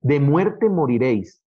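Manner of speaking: slow, leaning on muerte; stress on muerte. Shown as a demonstration. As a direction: land the word muerte with weight. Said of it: "quiere decir que hay un énfasis". (énfasis lento en muerte)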